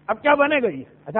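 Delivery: normal talking voice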